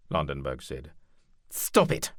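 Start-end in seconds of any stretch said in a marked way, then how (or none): 1.5-2.1 lordly commander, louder voice; commanding duke. Acted. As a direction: give the order like a duke. Leopold cutting them off.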